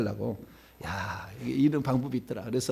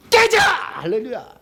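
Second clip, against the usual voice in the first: high, explosive battle cry; acted deliverance shout; shouted command; 10 semitones higher, 8 dB louder, slower than usual. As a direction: shout it as the hammer comes down. Acting out a hammer-blow command.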